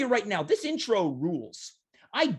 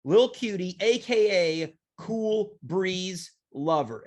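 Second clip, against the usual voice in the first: slow announcer; slower than usual. Acted. Announcing his nickname.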